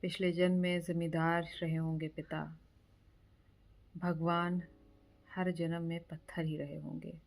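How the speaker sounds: measured poetry reading with pauses after each line; poem recitation. Acted. Reciting a friend's poem for his birthday, measured poetry recitation. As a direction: recite it line by line, letting images land.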